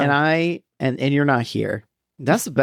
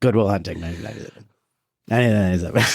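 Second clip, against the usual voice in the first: movie title announcer; 3 semitones lower, much faster than usual. Pretend. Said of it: "Why did you add the name of the movie right at the end".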